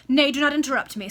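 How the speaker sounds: loud, commanding cut-off; husband silencing his wife, loud and imperative. Acted. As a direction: shut her down with force. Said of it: "in an imperative manner".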